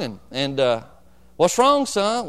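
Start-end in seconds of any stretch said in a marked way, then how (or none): 1.4-2.3 worried mother. Retold or imitated. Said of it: "she'd take care of us".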